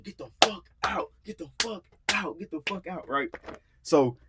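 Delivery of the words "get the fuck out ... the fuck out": high strained mock yell, held back in volume; repeated retold shout, away from the mic; imitated yelling. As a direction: act out ordering someone out, pitched way up. Acts out yelling her out.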